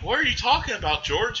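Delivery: high, fast, baffled cop voice; confused cop. Retold or imitated. Bert the cop to George, a high, quick confused question. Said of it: "And Bert's like".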